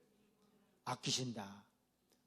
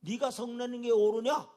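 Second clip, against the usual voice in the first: God's question; 6 semitones higher, 8 dB louder than usual. Acted. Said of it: "하나님께서".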